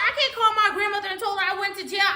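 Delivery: laughing. Retold or imitated. Friend voiced.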